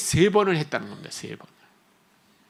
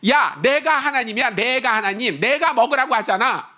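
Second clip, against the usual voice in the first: God impression; 3 semitones higher than usual. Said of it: "제가 하나님 성대모사를 하는 걸 들으세요".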